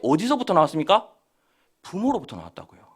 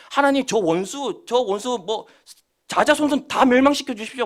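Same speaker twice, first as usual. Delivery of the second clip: acted cursing plea; 5 semitones higher, 4 dB louder than usual. Preacher voicing David's prayer against enemies, acted cursing. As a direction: call down ruin as the psalmist would. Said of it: "막 저주하는 게".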